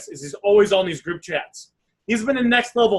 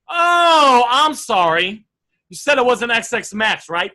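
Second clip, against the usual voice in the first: caught mistake; 3 dB louder, slower than usual. Shown as a demonstration. Coach demos the second way to text a buyer, with oh. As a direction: sound like you just noticed your slip. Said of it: "The feeling when you say the O is like you made a mistake".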